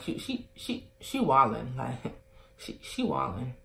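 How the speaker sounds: hushed, half-whispered remark to herself; whispered aside. Retold or imitated. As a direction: breathe it under your breath so she can't hear. Aside to herself about friend.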